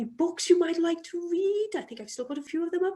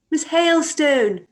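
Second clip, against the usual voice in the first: louder, drawn-out call ending on a fall; 7 dB louder, slower than usual. Acted. Chairwoman to member who can't hear her, calling out. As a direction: call her over a blaring television. Calling again over loud television.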